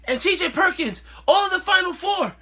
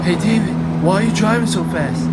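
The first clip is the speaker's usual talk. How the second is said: loud, low-pitched yell over the noise; yelled skit line; 8 semitones lower, 5 dB louder than usual. Acted. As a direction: shout at the speeding driver. Skit passenger yelling at driver.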